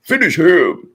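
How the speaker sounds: high, loud game announcer call, mock; Mortal Kombat announcer. Reader ready to fight, calling it like Mortal Kombat announcer. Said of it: "You're like".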